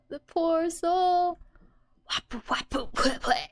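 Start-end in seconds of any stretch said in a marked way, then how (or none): 2.1-3.5 mock cough sounds, half whispered; playful imitated coughing fit. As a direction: sputter like choking on smoke. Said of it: "She's, like, coughing".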